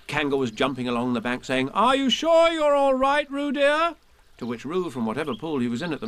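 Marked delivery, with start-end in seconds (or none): 1.7-4.0 high, slow worried mother calling; anxious call. Acted. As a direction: call out fretfully to her child. Kanga voice.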